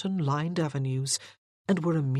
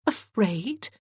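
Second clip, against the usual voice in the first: bristling; 5 semitones higher than usual. A narrator's reading. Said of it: "She bristled".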